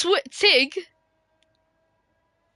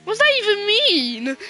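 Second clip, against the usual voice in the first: higher, exasperated what does that even mean; 6 semitones higher than usual. Real, not acted. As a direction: throw the question up in frustration. Confused by a chat message.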